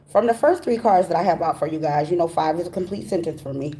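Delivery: speech slightly off from braces; talking with braces. Real, not acted. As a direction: talk around new braces. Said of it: "I'm talking funny 'cause I got braces on".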